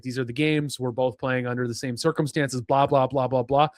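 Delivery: low, droning mock quote; dismissive paraphrase. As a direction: rattle off someone's excuse as if bored by it. Mockingly paraphrases Murph's excuse.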